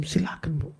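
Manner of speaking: very soft retold son's voice; calm concession. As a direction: gently hand the choice to mother. Son calmly leaves choice to mother. (mempersilakan ibu dengan suara lirih)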